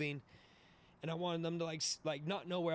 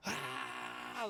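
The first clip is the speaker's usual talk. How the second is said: mock yell; 8 semitones higher than usual. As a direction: imitate drunken yelling without full volume. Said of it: "like, yelling".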